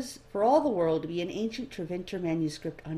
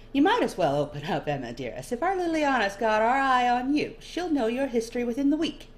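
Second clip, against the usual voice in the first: louder and higher, playful warning; teasing nobleman; 7 semitones higher, 5 dB louder than usual. Acted. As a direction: coax her to open up, teasingly. Dorian warns playfully.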